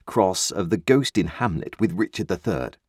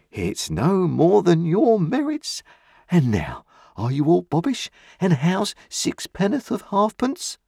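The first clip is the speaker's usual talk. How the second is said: Uncle Pumblechook retorting; 12 semitones higher than usual. A narrator's reading. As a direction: lord it over the boy from on high. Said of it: "he retorted".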